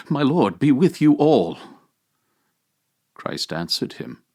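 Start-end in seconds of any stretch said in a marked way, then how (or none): 0.1-1.6 Adam crying out to all, raised and louder; a terrified first man calling out. A narrator's reading. Adam cries out to the dead, raised and louder. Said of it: "struck his breast in terror and cried out".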